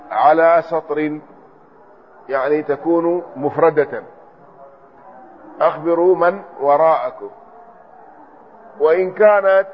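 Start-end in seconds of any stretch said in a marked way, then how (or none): 5.6-7.3 "من وراءكم" as man waraa'akum; fatha reading. Shown as a demonstration. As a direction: read "من" as man, then "وراءكم" with hamza plus a. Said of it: "بفتح الميم". ("من وراءكم" بفتح الميم والهمزة)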